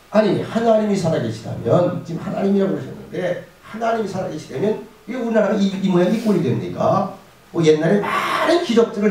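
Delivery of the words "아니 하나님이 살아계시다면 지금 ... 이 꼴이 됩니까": arguing Gideon. Acted. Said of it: "이렇게 따집니다".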